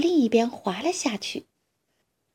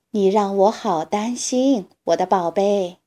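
tenderly; 2 semitones lower than usual. Acted. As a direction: ease the worry out gently. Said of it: "它温柔地说".

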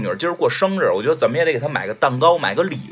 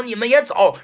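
retold shout; 8 semitones higher than usual. President shouting at two trailing bodyguards, raised retold yell. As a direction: mildly yell "go away too". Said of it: "冲那俩喊说".

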